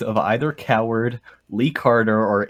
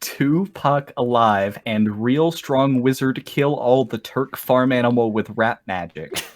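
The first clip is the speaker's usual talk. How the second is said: slow, deliberate reread of the wizard line; emphasized reread; slower than usual. Shown as a demonstration. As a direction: lean into every word, slowly. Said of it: "Just emphasize that".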